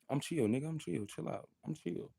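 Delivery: insisting calm. Real, not acted.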